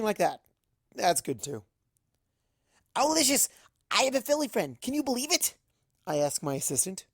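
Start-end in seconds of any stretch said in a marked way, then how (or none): 2.9-5.5 excited. Acted. Giddy over new friend.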